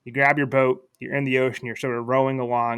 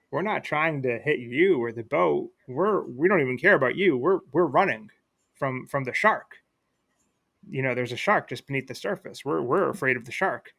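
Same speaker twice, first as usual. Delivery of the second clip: slightly raised, wavering fish voice; swaying up and down, mildly hammed-up fish; lightly voiced fish. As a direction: explain it as a frightened fish, lightly acted. Fish answers back in story.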